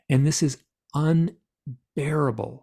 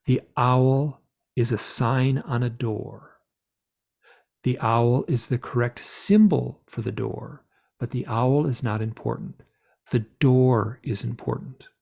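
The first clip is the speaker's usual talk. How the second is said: forthright and clear. Retold or imitated. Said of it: "speaking very clearly, very forthrightly".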